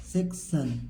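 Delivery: सेक्शन slowly, sek then shun; unhurried teaching model of सेक्शन; syllable-by-syllable reading. Shown as a demonstration. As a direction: break सेक्शन into two falling parts. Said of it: "सी का क्या पढ़ेंगे?".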